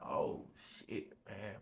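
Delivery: hushed whisper. Retold or imitated. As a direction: mouth it to yourself. Alone, scared in the cell.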